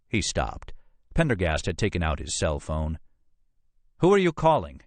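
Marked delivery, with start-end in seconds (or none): 4.0-4.8 high, loud alarmed demand; sharp demand. Acted. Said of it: "Custer demanded".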